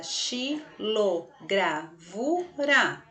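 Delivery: "xilogravura" slowly split into xi, lo, gra, vu, ra; five separate syllables. Shown as a demonstration. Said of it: "tem cinco sílabas". ("xilogravura" bem devagar, sílaba por sílaba)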